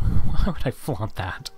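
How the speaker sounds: slow, loud laughing question. Real, not acted. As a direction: laugh through the words. Laughs at his own joke.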